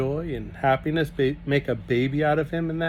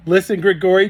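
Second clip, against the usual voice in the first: calling out; 6 semitones higher, 9 dB louder than usual. Acted. Jancy calling to Grigori.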